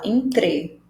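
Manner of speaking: "entre" with T running straight into R; T joined to R. Shown as a demonstration. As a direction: blend the "tre" of "entre" into one syllable. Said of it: "conecta o som desse T com esse R E".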